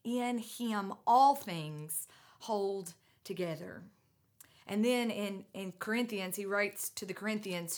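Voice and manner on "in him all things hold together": in him all things hold together, slowed right down and leaned on; slow emphatic repeat. Real, not acted. Preacher comforting listeners whose world is falling apart, slow and weighty. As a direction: let each word land slowly. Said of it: "If you feel like your world is falling apart".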